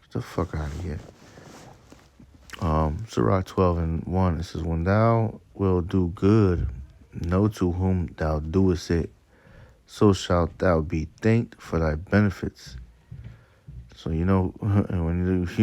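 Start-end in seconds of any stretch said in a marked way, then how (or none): 4.6-12.8 slow, measured reading of verse; scripture reading. Acted. Preacher reading Sirach to his listeners, slow scripture reading. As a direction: read it out deliberately, phrase by phrase.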